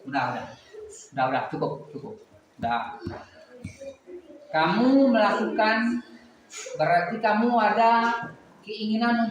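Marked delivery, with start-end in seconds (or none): 0.1-3.0 quiet, low-pitched comforting; soothing. Real, not acted. Calming a crying child down.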